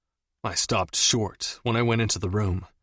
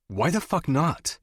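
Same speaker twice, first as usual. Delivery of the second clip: higher, heated demand; hot; 6 semitones higher than usual. A narrator's reading. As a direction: fire the question back. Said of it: "I asked hotly".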